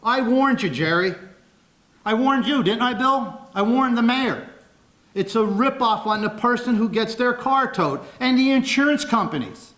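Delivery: worked-up public protest; loud, excited. Real, not acted. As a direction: hammer the warning home to the officials. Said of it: "I do talk a little loud and get a little excited".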